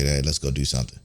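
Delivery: mocking the girlfriend too nervous to ask her boyfriend, timid and soft. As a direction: mumble it like you're scared to ask. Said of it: "too nervous to contact your boyfriend".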